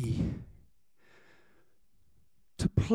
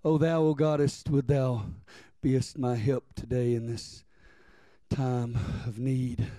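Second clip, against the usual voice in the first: low, solemn churchy praying; mock King James prayer; 6 semitones lower than usual. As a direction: intone a stiff, dignified old-fashioned prayer. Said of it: "does not sound like King James language".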